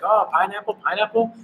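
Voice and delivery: high, sing-song call of pineapple; street seller's call. Retold or imitated. Street vendor calling to tourists, sing-song high cry.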